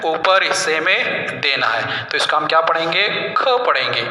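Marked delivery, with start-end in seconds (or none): 0.1-2.1 "ऊपर हिस्से में देना है" said again slowly, stressing ऊपर; slow down and lean on "ऊपर" for the pupils; slow teacher repeat. Shown as a demonstration. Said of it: "कहाँ देना है". ("ऊपर" पर ज़ोर देकर धीरे से दोहराना)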